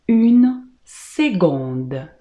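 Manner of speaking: "seconde" said slowly with a G sound for the C; seconde with hard G. Shown as a demonstration. Teacher modelling French for students, "seconde" pronounced with a G sound. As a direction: draw out "une seconde", C voiced as G. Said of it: "você sempre vai pronunciar une seconde".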